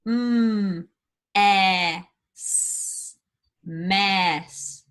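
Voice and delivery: sounds said apart, then quack whole; blending sounds. Shown as a demonstration. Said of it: "blend these words".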